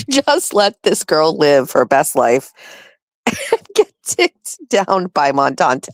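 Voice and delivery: slow, savoring it with a laugh; giggling repeat. Real, not acted. Repeating friend's text, still laughing. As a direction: chuckle through the line. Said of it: "It's hysterical".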